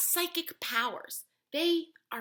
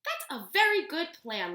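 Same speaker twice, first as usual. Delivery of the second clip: with a smile; 5 semitones higher, 7 dB louder than usual. Acted. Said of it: "Miss Obi said with a smile".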